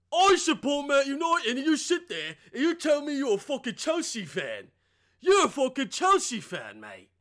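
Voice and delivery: hammed-up English fan furious at a Chelsea supporter; angry English football fan. A Man United fan yelling at a Chelsea fan, mock English accent.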